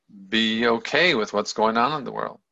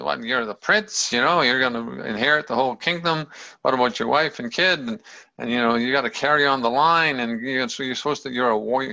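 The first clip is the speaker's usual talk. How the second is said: mildly agitated parental protest; imitated freak-out. Buddha's parents object to his renouncing, mildly freaked out. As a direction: pile up objections like a worried parent. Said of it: "freaked out and said".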